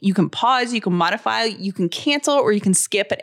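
friendly sponsor read, mom to mom. Acted. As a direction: pitch it like a friend's tip. Reads a sponsor ad.

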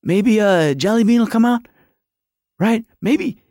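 high, fast fan babble; acting out a giddy fan's rising anticipation; retold excitement. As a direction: race through hopeful guesses, getting carried away. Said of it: "And I'm like".

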